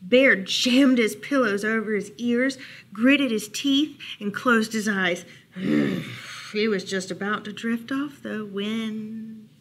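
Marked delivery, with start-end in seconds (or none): 5.5-6.5 long, low settling sigh. A narrator's reading. Bear trying to drift off, low sigh. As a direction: let out a low breath.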